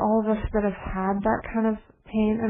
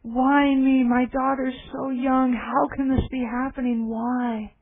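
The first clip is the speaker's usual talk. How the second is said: anguished cry; 3 semitones higher, slower than usual. Retold or imitated. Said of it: "she was just crying and crying, saying".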